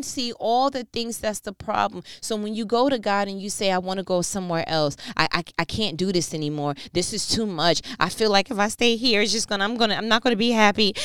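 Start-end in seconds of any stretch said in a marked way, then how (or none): 3.7-10.9 fast, louder complaining plea; frustrated prayer. Retold or imitated. Preacher voicing a worker begging God to leave, fast and louder. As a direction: rush it out like someone fed up.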